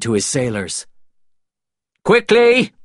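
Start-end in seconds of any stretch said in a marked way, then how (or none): 2.0-2.7 high, loud command; sharp, pitched-up shout; urgent order. A narrator's reading. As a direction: call out to hurry the crew. Norrington orders his sailors to hurry.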